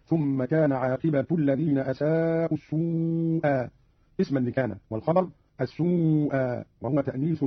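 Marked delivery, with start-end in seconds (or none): 0.1-3.7 عاقبة ending in -tu, slowly; aqibatu with u. Shown as a demonstration. Teacher demonstrating Qalun's nominative عاقبة, slow. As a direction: end عاقبة on a u. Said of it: "قرأ قالون بضم التاء رفعا هكذا".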